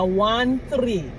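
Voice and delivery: THIRTEEN given as separate digits, ONE THREE. Retold or imitated. Ordering when they wouldn't understand, ONE THREE digit by digit. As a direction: say ONE THREE as two distinct numbers. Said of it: "I always had to say that".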